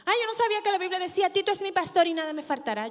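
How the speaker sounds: quick, teasing sarcastic quote. Retold or imitated. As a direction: rattle it off fast in mock innocence. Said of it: "con sarcasmo".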